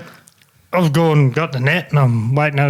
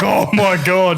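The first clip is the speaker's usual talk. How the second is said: excited; 3 semitones higher, slower than usual. Retold or imitated. Mate's first big fish.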